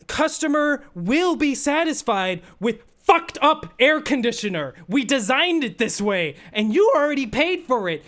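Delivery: mocking reading of the fine print, high. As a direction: parody the sly contract talking. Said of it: "it says".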